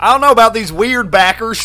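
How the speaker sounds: loud, high mock Aussie; mock Australian accent. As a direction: call it out in a put-on Australian accent. Mock accent complaint about the beer.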